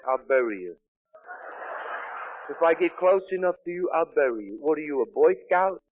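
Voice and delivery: retold heckle from the back of the room; heckling call. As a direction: call out a mocking challenge. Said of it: "I called out to him from the back of the room".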